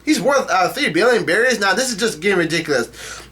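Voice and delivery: high, disbelieving repeat of the figure; incredulous. Real, not acted. Reader repeats a ridiculous bounty figure, incredulous.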